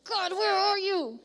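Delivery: hammed-up big bad wolf demanding an answer. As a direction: huff it out like a cartoon wolf. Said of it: "It was like the big bad wolf".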